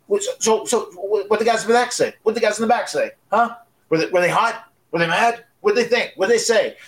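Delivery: high, pushy rapid-fire questions. Retold or imitated. Raven pressing the new wrestlers for gossip, in a high eager voice. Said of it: "Raven was going".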